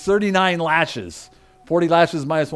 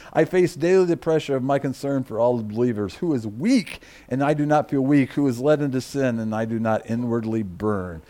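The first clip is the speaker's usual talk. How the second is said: measured reading, sinking lower to the end; subdued scripture reading; 4 semitones lower than usual. Acted. Preacher ends Paul's list of burdens, subdued reading. Reads close of the passage.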